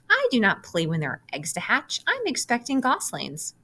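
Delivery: a fussy hen of a goose, too busy to play; a hint of a fussy goose with a breathy toasty warm; fussy mother goose. Goose voiced in story.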